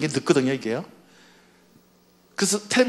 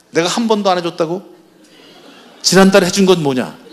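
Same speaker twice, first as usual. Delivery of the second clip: louder, indignant comeback; angry husband; 6 dB louder than usual. Retold or imitated. Husband to wife in a fight, indignant and loud. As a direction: fire the facts back.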